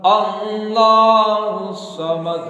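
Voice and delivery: slow chanted Surah Ikhlas; Quranic recitation. Acted. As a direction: intone slowly like an imam. (धीमी सुरीली क़िरात)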